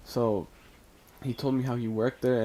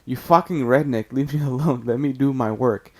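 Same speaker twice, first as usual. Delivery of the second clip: fed-up mock yell, raised but contained; louder, exasperated outburst, not a full shout; retold yell; 2 semitones higher, 6 dB louder than usual. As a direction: raise your voice as if snapping at a pest. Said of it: "So I fucking yelled at him".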